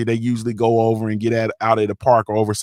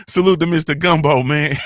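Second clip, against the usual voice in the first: laughing; 3 semitones higher than usual. Real, not acted. Laughs reading a super chat.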